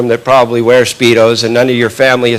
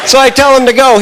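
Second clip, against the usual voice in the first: excited; 11 semitones higher than usual. Retold or imitated. Cheering friend on in race.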